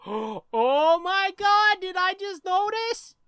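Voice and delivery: high, slow gasping shock; mock surprise. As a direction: gasp and overplay the surprise.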